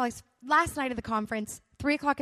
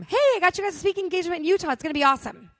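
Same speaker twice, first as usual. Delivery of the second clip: fast, eager dad announcing news; excited dad; 5 semitones higher, 4 dB louder, faster than usual. Retold or imitated. Intense dad bursting out of the bedroom with news, fast and eager.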